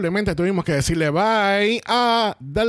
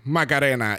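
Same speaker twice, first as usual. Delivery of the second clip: lightly imitated lower, falling reply; queen correcting her name; 3 semitones lower than usual. Queen answers the judge's introduction, mock correcting reply. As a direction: drop low to mock-correct the host. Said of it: "lo hizo durante el reading".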